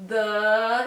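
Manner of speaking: the syllable "the" sliding upward in pitch; rising tone demo. Shown as a demonstration. Teacher demonstrating the Mandarin second tone. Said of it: "it's a rising tone".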